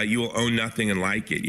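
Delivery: imitating a German accent, like a Bond villain; a light Klaus Schwab German accent; hint of a German-accented villain. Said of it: "Klaus Schwab says with that wonderful accent".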